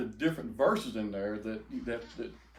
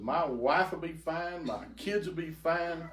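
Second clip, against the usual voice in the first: slow pleading; 4 semitones higher than usual. Retold or imitated. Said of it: "And I said".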